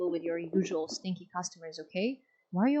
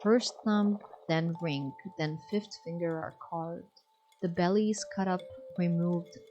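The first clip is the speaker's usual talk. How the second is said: measured storyteller reading; lightly dramatic read-aloud; dramatic verse reading. Acted. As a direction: read the grisly poem steadily. Reading a grim verse tale aloud.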